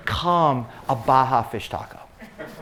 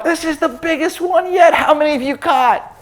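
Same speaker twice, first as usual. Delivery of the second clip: put-on higher, louder excited kid calling out; excited son; 11 semitones higher, 5 dB louder than usual. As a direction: call across the boat like a thrilled boy. Son boasting in story.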